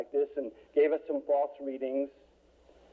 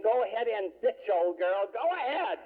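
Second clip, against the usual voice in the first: smiling encouragement; 5 semitones higher than usual. Retold or imitated. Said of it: "standing there smiling and saying".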